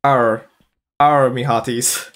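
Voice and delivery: drawn-out pirate "arr"; pirate talk. Pretend. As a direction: play a pirate growling out an arr.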